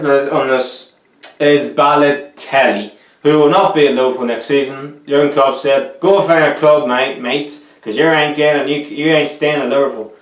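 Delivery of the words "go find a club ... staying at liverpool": lightly attempted Aussie accent; Australian accent. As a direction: quote the manager in a bad, slight Australian accent. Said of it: "Why did I just do an Australian accent".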